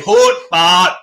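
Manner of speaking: Hoot, but said loud and curt; sharp retort. Shown as a demonstration. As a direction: snap Hoot, but to end the talk. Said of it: "Just turn and say".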